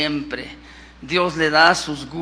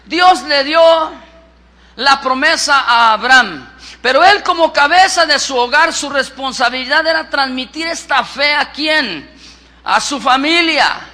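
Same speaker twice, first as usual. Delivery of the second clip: emphatic scripture reading from the pulpit; predicación enérgica; 6 semitones higher, 10 dB louder than usual. Real, not acted. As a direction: preach it out forcefully, stretching key phrases. Explica con fuerza la promesa. (lectura bíblica proclamada con fuerza)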